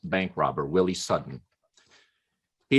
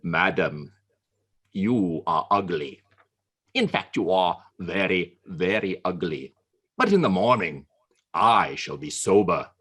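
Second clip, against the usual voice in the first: Churchill's retort; 6 semitones lower than usual. Acted. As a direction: answer low and unbothered.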